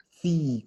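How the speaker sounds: sí begun with a well-marked, hard TS sound; over-mark the opening TS in sí; exaggerated Z sound. Shown as a demonstration. Teacher showing students the Italian Z, well marked. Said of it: "como bien marcado".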